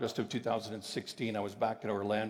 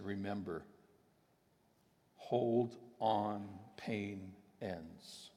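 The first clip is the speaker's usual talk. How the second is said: gentle quiet voice; 4 semitones lower, 5 dB quieter, much slower than usual. Retold or imitated. God speaking to him gently.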